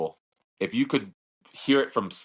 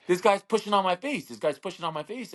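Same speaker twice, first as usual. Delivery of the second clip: whiny complaint; 8 semitones higher than usual. Retold or imitated. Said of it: "He's just like".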